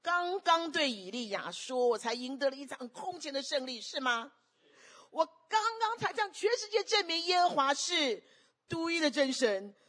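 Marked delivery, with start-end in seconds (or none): 5.1-9.8 voicing Elijah. Preacher voicing Elijah's triumph.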